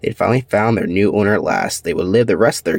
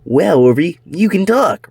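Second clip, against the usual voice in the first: high, astonished cry; stunned; 8 semitones higher, 4 dB louder than usual. Acted. Elvis stunned that Orby can talk, high surprise. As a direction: gasp it out in disbelief.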